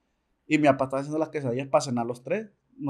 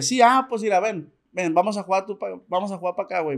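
nervioso fingiendo calma; 4 semitones higher than usual. Retold or imitated. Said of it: "le dije".

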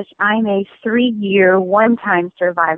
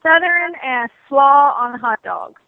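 hammed-up Southern; 4 semitones higher than usual. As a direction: lean into a mild Southern twang. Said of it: "That's pretty Southern".

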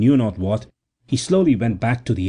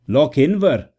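surprised exclamation; 4 semitones higher, slower than usual. A narrator's reading. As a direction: blurt the place name in disbelief. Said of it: "the other exclaimed".

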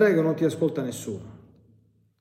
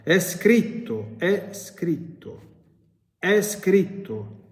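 slow, higher repeated È scritto; demon shouting; 5 semitones higher, much slower than usual. Retold or imitated. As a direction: hammer each È scritto slowly. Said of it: "urlando nuovamente". (È scritto gridato lento dal demonio)

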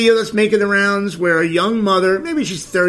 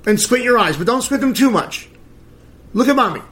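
imitating a mother faking a sob, higher pitch; mock fake-crying mother; 5 semitones higher than usual. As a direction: mimic her put-on whimper as she coaches the kid. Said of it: "She's like".

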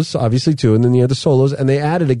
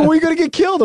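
put-on high worried kid voice; son's mock panic that dad will die; mimicking his kids; faster than usual. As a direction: warn him like a fretting little boy, pitched up. Dad voicing worried sons.

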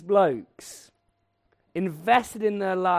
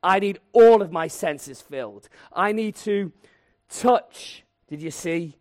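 insistent demand; 3 semitones higher, 6 dB louder than usual. Retold or imitated. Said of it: "He's saying".

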